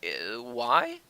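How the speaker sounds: baffled reaction. Acted. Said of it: "And you're just like".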